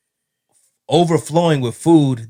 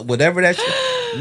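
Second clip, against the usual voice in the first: laughing. Real, not acted. Laughing at gross jelly.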